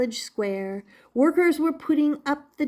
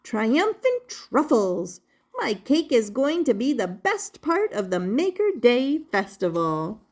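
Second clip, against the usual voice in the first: proud baker. Acted. Baker boasting about his giant cake, proud.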